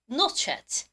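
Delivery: "Not yet" run together as "not-chet"; "Not yet" with a ch sound before "et"; hard British linking. Shown as a demonstration. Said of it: "세게 하면 뭐라고요".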